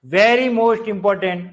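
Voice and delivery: very most important drawn out slowly, very stressed; emphatic warning. Shown as a demonstration. Teacher flags an exam point, slow and emphatic. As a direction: stretch every word of very most important. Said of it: "teacher flags key item".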